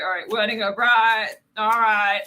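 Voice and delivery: playful Texan twang on a card reading; Texan accent. Pretend. Tarot reader naming the card, playful Texan accent. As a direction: slip lightly into a Texan accent. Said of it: "now I'm talking with, like, this Texan accent".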